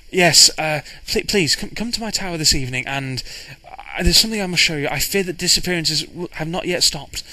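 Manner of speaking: hesitant, stammering twitchy little man; a hint of a jittery, awkward scholar; nervous little astronomer. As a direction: stammer through it with lightly voiced nerves. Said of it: "a very nervous, tw-, twitchy little man".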